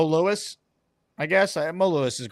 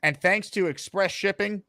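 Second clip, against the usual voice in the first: slow, drawn-out ceremonial announcement; ring-announcer style hype with measured pauses; show announcer; 3 semitones higher, slower than usual. Pretend. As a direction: build up a big live unveiling. Hypes a live prize unveiling.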